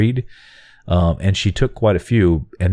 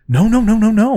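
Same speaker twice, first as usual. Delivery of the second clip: high, louder mock scolding no's; hammed-up shooing away; imitating a yell; 5 dB louder than usual. Retelling the stroller attendant's scolding, mock yell. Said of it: "I was being yelled at".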